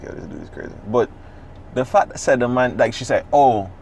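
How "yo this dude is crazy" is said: breathy unvoiced whisper. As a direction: whisper it to yourself. Inner thought said to himself.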